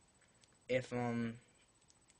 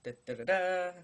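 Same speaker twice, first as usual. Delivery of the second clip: burp noise from the upper throat; loud burped syllables; burping the words; 6 semitones higher, 7 dB louder than usual. Shown as a demonstration. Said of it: "which is the burp noise".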